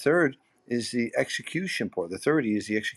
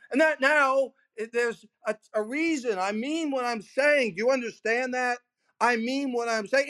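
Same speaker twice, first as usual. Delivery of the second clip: voice goes up; 10 semitones higher than usual. Shown as a demonstration. Speaker showing his attention-grabbing technique, much higher pitch. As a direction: pitch jumps high to grab attention. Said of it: "oh, the voice goes up".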